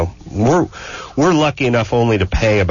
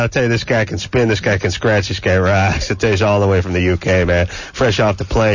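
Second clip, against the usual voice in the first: lightly voiced good-ol'-boy radio jock; hammed-up country DJ. Host introducing guest as a folksy DJ, hammed-up. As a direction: ham up a folksy hick DJ intro.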